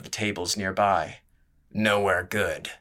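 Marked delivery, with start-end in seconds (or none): 1.7-2.7 grunted. Acted. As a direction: drag it out like a grunt. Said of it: "the brawler grunted".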